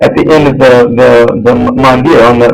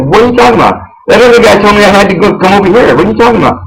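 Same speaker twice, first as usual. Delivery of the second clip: higher-pitched, exasperated retort at normal volume; indignant, higher-pitched comeback; retold pissed-off protest; 6 semitones higher, faster than usual. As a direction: argue back, fed up with the runaround. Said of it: "like, really pissed. I go".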